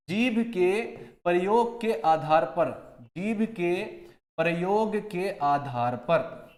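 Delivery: जीभ के प्रयोग के आधार पर said slowly, word by word; measured, slow teacher's repeat; slow repetition. Shown as a demonstration. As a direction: dictate it slowly for the class. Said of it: "teacher repeats slowly".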